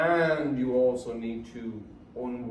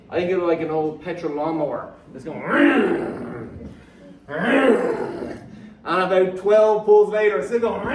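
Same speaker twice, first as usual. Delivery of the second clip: laughing; 4 semitones higher, 9 dB louder than usual. Real, not acted. Lawnmower comparison, laughing.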